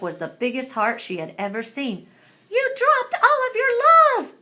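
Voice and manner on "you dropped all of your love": higher, louder call after someone. A narrator's reading. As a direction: call it after a friend who is flying off. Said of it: "Olive called out".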